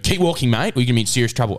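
mild retold yell; mock yelling teacher. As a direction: imitate a teacher moving a student along. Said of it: "he was, like, yelling".

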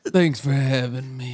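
slow smooth suave voice; sexy voice. Pretend. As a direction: purr it slowly. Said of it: "that's my sexy voice".

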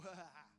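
demonstrated laugh. Acted. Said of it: "you can't help but go".

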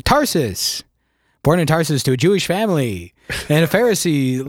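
dramatic announcer narration. Acted. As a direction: read it like a TV trailer voiceover. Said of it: "kinda like the T V announcer voice".

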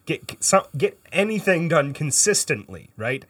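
a hint of a bad British accent; lightly held British accent. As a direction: keep the mock British accent going. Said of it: "affectation that I am putting on right now".

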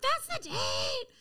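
high, slow, tearful; through tears. Retold or imitated. Crying to her sponsor about the date, high and slow. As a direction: drag it out crying. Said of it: "And I'm like".

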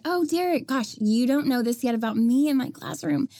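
high, syrupy classroom correction; sweet firm teacher. Retold or imitated. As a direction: correct the student politely.

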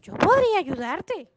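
a hint of a wheedling storybook frog; bargaining frog. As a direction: make a lilting offer as the frog. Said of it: "La rana le responde".

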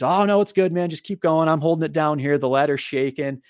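lightly voiced dad calling up, no worries; papá tranquilizador. Acting out dad reassuring from below.

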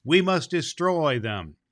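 stern vow. Acted. Fairy prince vowing war to the council, slow and firm. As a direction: declare it firmly, each word weighed.

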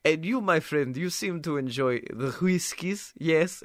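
Art Twain voice. Retold or imitated. Art Twain quizzes the narrator about whiskey in his odd voice. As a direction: keep the strange giant's voice. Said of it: "very interesting voice".

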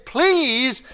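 slow, earnest plea; pleading prayer. Retold or imitated. David crying out to God, slow pleading. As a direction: beg to be heard, drawn out. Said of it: "David is crying out to God".

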